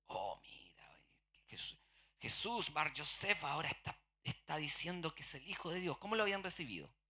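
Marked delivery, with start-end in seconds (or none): 0.1-6.0 hushed, secretive gossip; mock gossiping whisper. Townsfolk whispering gossip about Jesus. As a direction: whisper it like spreading a rumour.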